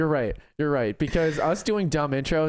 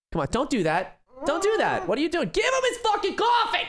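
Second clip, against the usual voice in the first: mock whining. Mock whining rising to yell.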